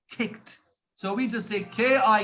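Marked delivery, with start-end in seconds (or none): 0.1-0.6 "kicked" said softly as a short kikt with a light t; soft demo word. Shown as a demonstration. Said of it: "we say".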